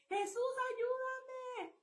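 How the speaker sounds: slow, high drawn-out plea; reenacted cry. Telling the congregation how she shouted, a slow high plea. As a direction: stretch each word out as a cry to heaven. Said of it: "Así grité".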